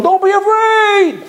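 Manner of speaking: high, slow, sing-song mock comfort; drawn out like a patronizing pat on the head; hollow reassurance. Mocking someone telling a frightened person not to fear.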